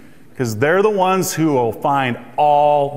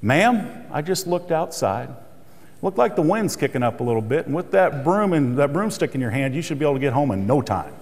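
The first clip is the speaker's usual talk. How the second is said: softer, unhurried, deadpan calm; very calmly; 2 semitones lower, 3 dB quieter than usual. Retold or imitated. Cashier answering a rude customer, very calm. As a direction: serene and dry, letting the joke land. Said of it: "she says very calmly".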